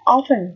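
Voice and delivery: "often" begun on an open "aw" sound; open first vowel. Shown as a demonstration. Teacher demonstrates the vowel to learners, clearly modelled. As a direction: model "often" as "AW-fen", silent T. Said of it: "được phát âm là âm ơ".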